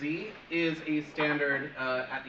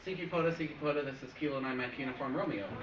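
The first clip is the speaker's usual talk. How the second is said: radio call demo; faster than usual. Shown as a demonstration. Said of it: "you're literally sitting there like".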